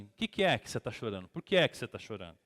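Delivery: imitated arrogant questioning, falling endings; low-pitched, imperious retold question. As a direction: demand it as an arrogant husband. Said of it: "com essa arrogância mesmo".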